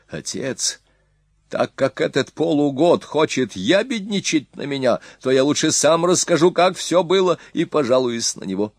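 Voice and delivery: high, fast and pleading; whiny accusing son. Acted. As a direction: rush to tell his side first. Son complains to father.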